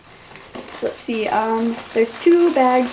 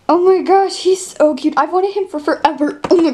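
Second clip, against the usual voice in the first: high, loud gushing over a toy; excited gush; 4 semitones higher, 4 dB louder than usual. Real, not acted. Unboxing the monkey she always wanted, excited squeal. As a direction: squeal with delight at a new pet.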